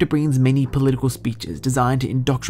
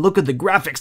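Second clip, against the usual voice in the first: mock outburst; 3 semitones higher than usual. Gamer mocking blocky old Half-Life graphics, mock yell.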